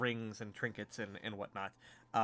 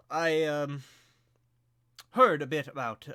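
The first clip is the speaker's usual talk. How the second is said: higher, louder noble voice; inquiring lord; 4 semitones higher, 8 dB louder than usual. Acted. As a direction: broach the matter as a lord, emphatically. Lord raises the mission.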